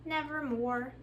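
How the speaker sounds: lightly voiced raven, a touch otherworldly; puppet raven voice. Raven puppet refusing to tell the children, lightly voiced.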